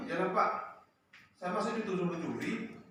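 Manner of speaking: loud, high indignant comeback; angry student retort. Retold or imitated. Student accused of stealing retorts angrily, loud and high. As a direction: snap back like a wronged teen.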